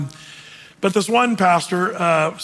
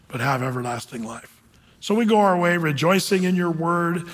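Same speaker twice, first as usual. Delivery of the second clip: prayer; 3 semitones lower than usual. Real, not acted. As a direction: pray it sincerely to close the service. Closing prayer.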